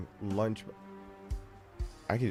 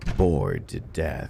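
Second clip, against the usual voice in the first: dropped, lower voice; 6 semitones lower than usual. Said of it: "I tried to drop it a little bit".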